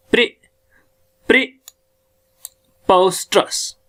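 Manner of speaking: प्रीपोस्टरस slow, "pre" set apart from "posterous"; sounded out. Shown as a demonstration. Teacher introducing the next word to learners, sounded out.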